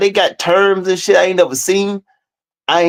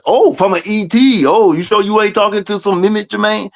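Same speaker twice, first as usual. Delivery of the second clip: higher, put-on preachy voice; lightly voiced mock believer; mocking a spiritual believer; 4 semitones higher than usual. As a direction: mimic a gushing believer.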